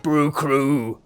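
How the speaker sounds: lightly voiced hammy pirate; a hint of pirate captain. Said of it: "my pirate voice".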